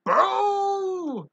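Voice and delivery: slow, deep-voiced boom ending in a shouted Boo; a mighty voice booming slowly. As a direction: boom it out like a giant. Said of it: "A deep, mighty voice boomed".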